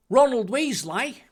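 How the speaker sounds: friendly put-on Australian, drawn out; Australian accent. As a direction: introduce yourself in a slow mock Australian accent. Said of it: "Make him Australian".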